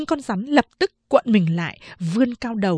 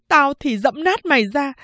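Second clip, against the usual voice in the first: raised, raging threat; giận dữ đe dọa; angry threat; 4 semitones higher than usual. Acted. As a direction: snarl it while stamping. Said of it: "vừa dẫm vừa chửi".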